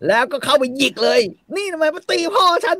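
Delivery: put-on shrill whiny child princess; shrill melodramatic sobbing. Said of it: "ทำตัวเป็น นางเอกหนังไทย".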